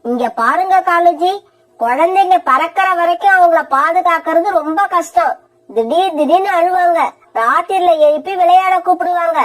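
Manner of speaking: a lightly voiced sharp, sulky wife; selfish young wife. Wife Kori arguing with her husband, sulky and sharp. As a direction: complain like a spoiled wife who wants help kept on.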